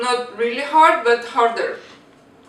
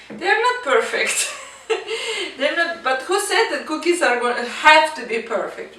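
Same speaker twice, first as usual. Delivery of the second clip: laughing; 4 semitones higher than usual. Real, not acted. Laughing at imperfect cookies.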